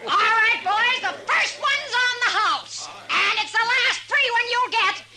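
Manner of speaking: booming saloon hostess call; hearty announcement. Acted. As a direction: sell the free drink to the room. Hostess announces free round.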